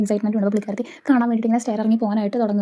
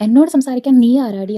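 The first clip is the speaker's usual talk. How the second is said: retold angry retort; 4 dB louder, slower than usual. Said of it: "ഇങ്ങനെ ദേഷ്യപ്പെട്ടുകൊണ്ട്".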